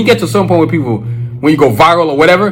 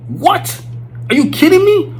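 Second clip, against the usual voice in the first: excited disbelief; 13 semitones higher, slower than usual. Real, not acted. Imagining McDuffie with YouTube.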